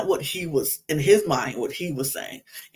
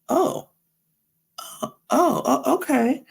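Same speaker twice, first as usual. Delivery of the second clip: flustered high okay; 9 semitones higher than usual. Retold or imitated. Janae, caught off guard by Connor, stammers a flustered high okay. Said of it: "And she's like".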